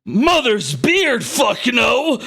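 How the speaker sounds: high, drawn-out mock outrage; appalled bandit's slow, high cry; yelled refusal. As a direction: bellow it in hammed-up disbelief.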